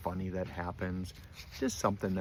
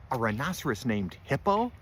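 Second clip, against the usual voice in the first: raised, questioning amusement; amused disbelief; 4 semitones higher, 5 dB louder than usual. A narrator's reading. Fluffy hearing the rhinoceros's name, amused disbelief. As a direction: repeat it as a slightly louder, incredulous question. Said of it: "Fluffy smiled".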